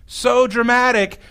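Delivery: mock dramatic. Shown as a demonstration. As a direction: drag out "So dramatic." as if rolling your eyes.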